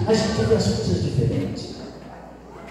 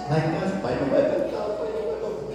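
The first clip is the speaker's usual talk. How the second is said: soft, high-pitched plaint; imitating tearful son; 6 dB quieter, faster than usual. Priest imitating his son missing his father, tearful plaint. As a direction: mimic a crying son, voice climbing high. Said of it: "ele chora muito".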